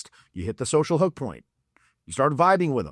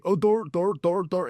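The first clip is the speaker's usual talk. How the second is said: mock flustered guy; 4 semitones higher than usual. Imagined catcaller thrown into confusion.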